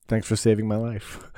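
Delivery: mock blissful relief; relieved guy. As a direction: sound saved and satisfied. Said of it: "you're like".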